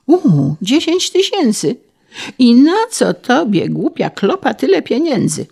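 high, swooping condescending surprise; greedy official, amazed. A narrator's reading. Official astonished that a peasant has money, condescending. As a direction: marvel loftily at the peasant's fortune.

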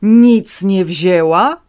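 loud, slow disbelieving question. A narrator's reading. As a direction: throw the words back at him loudly. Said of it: "dziadek podniósł głos".

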